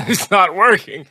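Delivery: high strained mock voice of a suffering actor; mock sick actor. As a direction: squeak it out like a hammy dying actor. Puking actor under radiation, acted.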